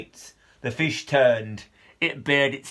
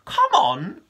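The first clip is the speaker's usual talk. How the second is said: high excited call across the trees; eager call; 12 semitones higher than usual. Acted. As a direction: call the others over, pitched way up. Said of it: "called Con".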